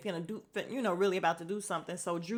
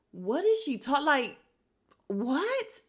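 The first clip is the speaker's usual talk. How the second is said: higher, stunned stammer; dumbfounded; 6 semitones higher, 4 dB louder, slower than usual. Retold or imitated. Recalling a resident's odd claim, stunned high sputter. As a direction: sputter in disbelief. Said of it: "I was just like".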